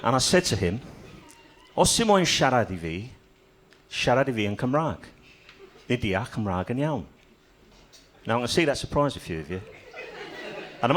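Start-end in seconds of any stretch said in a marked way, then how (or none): 1.8-7.1 confident burst of Welsh; speaking Welsh. Acted. Cornered comedian answers the bloke, speaking Welsh. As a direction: deliver Welsh phrases boldly, phrase by phrase. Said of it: "I didn't know I could speak Welsh".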